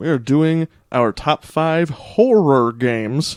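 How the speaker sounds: slow, deliberate delivery, each word carefully drawn out. A show host answers what today's top five is, said slowly. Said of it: "you said that slowly".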